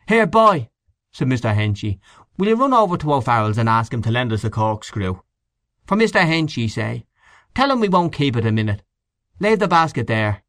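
put-on Henchy calls out to the delivery boy; voiced Mr Henchy. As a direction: send him off quickly. Henchy orders the boy about.

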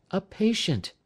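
a wife noting the caller; wife's voice. A narrator's reading. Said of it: "said she".

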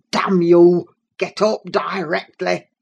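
sudden loud, furious order; explosive command; angry outburst. A narrator's reading. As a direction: burst out loudly as the held temper snaps. Father's temper bursts at his son.

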